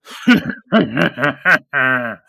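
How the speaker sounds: a slow, rattling villain's cackle; throaty villain laugh. Acted. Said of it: "he gives this throaty".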